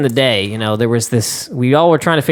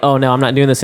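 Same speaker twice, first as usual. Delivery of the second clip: ordinary talk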